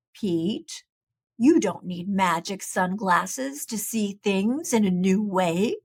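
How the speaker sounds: low, calm wise owl voice; wise old owl. Acted. Wise Old Owl gently advises Pete from the tree. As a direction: gently hand down wisdom.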